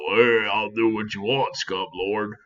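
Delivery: a low, quiet mock henchman voice with metal teeth; understated impression of the cartoon Jaws. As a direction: lightly imitate Jaws talking through his shark teeth. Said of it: "he can talk like this and go".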